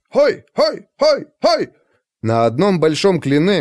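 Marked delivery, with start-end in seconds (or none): 0.1-1.7 rowdy cheering shout. A narrator's reading. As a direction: whoop it up like party guests. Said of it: "подбадривали танцоров хлопками и криками". (громкий пьяный выкрик)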